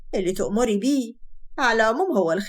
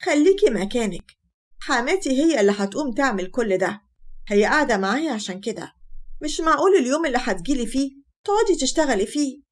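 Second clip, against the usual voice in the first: sharp; 3 semitones higher than usual. Acted. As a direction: snap at her mother to stay seated. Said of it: "نجوى بحدة". (بحدة وعصبية)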